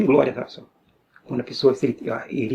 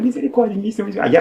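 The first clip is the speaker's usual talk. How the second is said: raised-pitch retold plea; mock cry for mercy; 5 semitones higher, faster than usual. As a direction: lift the voice as if crying out inwardly, without full shouting. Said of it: "mas eu gritando".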